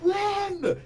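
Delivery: sudden, very high, loud shriek; panicked troll yell. Acted. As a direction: scream it as the troll bolts. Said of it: "just goes".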